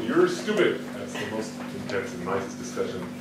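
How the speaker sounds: ordinary talk, nothing marked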